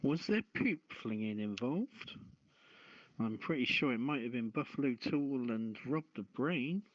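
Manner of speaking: ordinary talk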